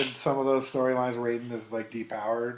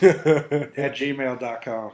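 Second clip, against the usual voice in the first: very slow and loud; slow, deliberate; 9 dB louder, much slower than usual. Real, not acted. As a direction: spell it out slowly. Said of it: "spells out the address".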